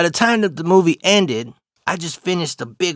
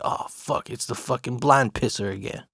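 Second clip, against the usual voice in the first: whispered; 6 dB quieter than usual. Retold or imitated. Hiding in stall, dreading.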